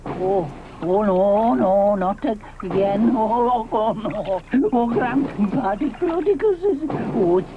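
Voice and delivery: slow moaning worry; fretting dinosaur. Acted. A nervous dinosaur sees trouble coming, slow moaning worry. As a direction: groan and flee.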